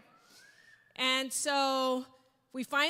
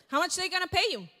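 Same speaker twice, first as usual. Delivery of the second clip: grilling husband; 5 semitones higher, 5 dB louder, faster than usual. Retold or imitated. Husband keeps grilling her.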